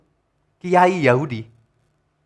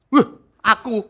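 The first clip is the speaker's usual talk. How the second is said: startled cry; 9 semitones higher, 7 dB louder than usual. Retold or imitated. Frightened man sees his name.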